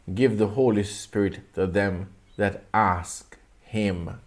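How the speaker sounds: slow, deliberate Bible reading; scripture reading. Acted. Preacher reads Jesus' words to the congregation, slow measured recitation. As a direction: read out the verse with solemn, drawn-out pauses.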